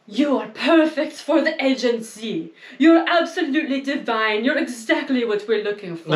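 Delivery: put-on lightly French-accented gushing scout; mock French accent. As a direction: gush like a French talent scout. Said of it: "I don't know why I have a French accent".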